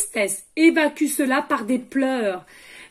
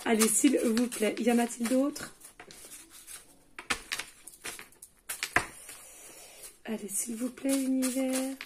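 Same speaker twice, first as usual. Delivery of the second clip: hushed plea to the universe; 10 dB quieter than usual. Real, not acted. Asks the universe for messages.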